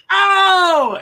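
high loud yelp of pain; sudden loud high "ow" from a dart in the leg. Retold or imitated. Second dart hits.

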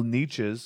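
"niches" said NEE-chiz, with a ch; long ee and a ch in "niches"; anglicized pronunciation. Shown as a demonstration. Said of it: "I hear people say niches".

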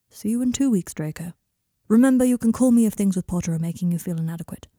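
lightly voiced, firm therapist; measured therapist. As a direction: reassure a client with measured authority. Therapist closing the session.

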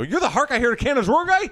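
mock amazement, rushed question; a touch of starstruck disbelief, quick; amazed recognition. Cabbie recognizes the actor, mildly amazed.

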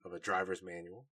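soft, droning monotone bore; Colin Robinson impression. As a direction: drone on like an energy vampire. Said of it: "Colin Robinson".

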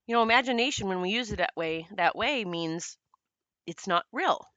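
talking between sips of smoothie; while sipping a drink. Real, not acted. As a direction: speak with a drink in hand, pausing to sip. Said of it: "I'm drinking one of my smoothies".

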